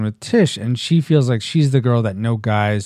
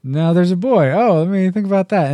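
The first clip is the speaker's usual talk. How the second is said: higher, lightly mocking swoon; mock smitten; 5 semitones higher than usual. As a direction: play a giddy girl, half-joking. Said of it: "and all of a sudden".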